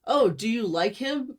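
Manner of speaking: loud, high mocking singsong; mock the gushing question. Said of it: "I really hate this whole".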